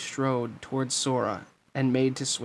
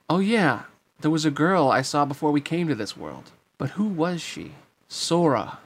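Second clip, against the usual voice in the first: put-on puzzled young hero; 3 semitones higher, 3 dB louder than usual. Sora struggles to remember a girl, puzzled and searching. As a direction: puzzle through a faded memory. Sora's puzzled inner monologue.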